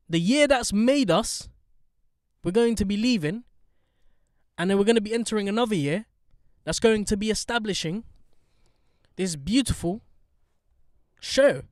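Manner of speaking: big ceremonial show announcement; grand announcer. Real, not acted. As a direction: proclaim it phrase by phrase. Host gives grand year-end announcement.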